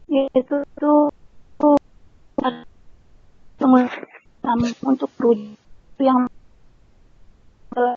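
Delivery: choppy glitching connection; words cutting in and out like bad internet; breaking up audio. Real, not acted. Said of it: "Suaranya putus-putus".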